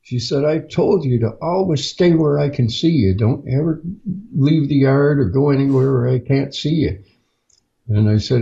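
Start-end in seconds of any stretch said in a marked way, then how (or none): 0.0-7.0 higher-pitched mock scolding; scolding mother. Mother scolding her lost child, a higher mock scold. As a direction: play the cross mother wagging a finger.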